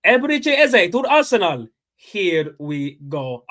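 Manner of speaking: loud, high headline shout, drawn out at the end; excited transfer announcement. Retold or imitated. Fan reliving the Eze news from TikTok, excited announcement. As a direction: announce a huge signing, stretching the last words.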